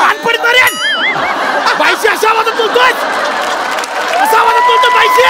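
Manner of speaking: high, outraged shouting; comic furious telling-off; angry scolding. Acted. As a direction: climb to a screech of indignation. Rebukes conductor for rude tone.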